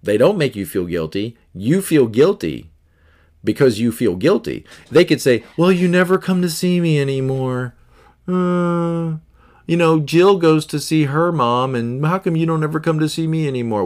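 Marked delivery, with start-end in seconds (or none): 5.6-13.8 higher whiny reproachful mother; lightly voiced nagging parent; a parent pleading to be visited; guilt-tripping mom.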